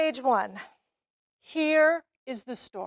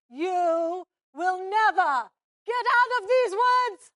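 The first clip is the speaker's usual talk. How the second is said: villain menace; 4 semitones higher than usual. Acted. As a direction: threaten like a stage villain. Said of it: "I say my line first".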